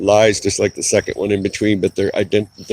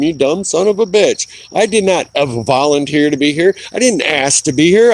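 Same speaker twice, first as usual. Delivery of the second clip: retold angry rant; 3 semitones higher than usual. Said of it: "Oh, I went nuts".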